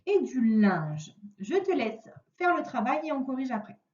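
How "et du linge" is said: et du linge spoken slowly and clearly; slow dictation. Shown as a demonstration. Teacher dictating to pupil, slow and clear. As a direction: give et du linge word by word. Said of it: "dictating words to pupil".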